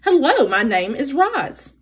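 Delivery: slow, even robot greeting. Acted. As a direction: greet them slowly like a robot. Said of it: "using her body and voice".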